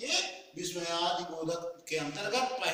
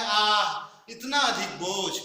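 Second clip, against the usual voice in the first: slow, loud strained "आह"; aching, stretched "आह"; pained groan; 4 dB louder, slower than usual. Shown as a demonstration. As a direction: groan under a heavy load. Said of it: "ये मेरा tone जो है".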